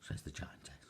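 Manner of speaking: a giantess astonished they know; amazed giantess. A narrator's reading.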